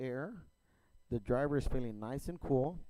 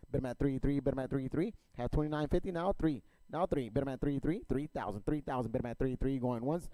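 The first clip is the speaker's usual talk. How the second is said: rapid rhythmic auction chant; auctioneer; faster than usual. Real, not acted. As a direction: rattle off bids like an auctioneer. Auction chant bidding calls.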